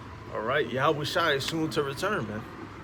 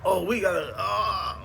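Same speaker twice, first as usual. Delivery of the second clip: higher, startled shout of alarm; mock panicked cry; 5 semitones higher, slower than usual. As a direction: blurt it like a startled heathen. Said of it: "they're gonna look at me like".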